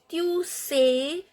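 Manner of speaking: "sais" said as "say", S silent; silent final S. Shown as a demonstration. Teacher sounding out French, "sais" with silent final S. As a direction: say "Tu sais" with no S at the end. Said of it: "S is not pronounced".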